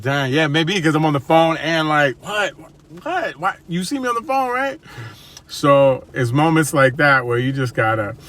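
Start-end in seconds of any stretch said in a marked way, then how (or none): 0.0-4.8 surprised realization. Retold or imitated. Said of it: "And I was like".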